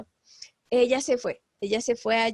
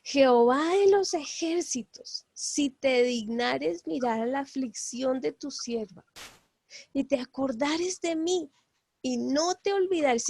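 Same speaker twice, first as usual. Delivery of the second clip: pleading prayer; 4 semitones higher than usual. Retold or imitated. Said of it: "E hizo voto diciendo".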